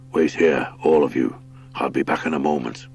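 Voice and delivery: low, commanding badger voice; lightly voiced badger commanding the hares; badger lord. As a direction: give the order like a big gruff lord.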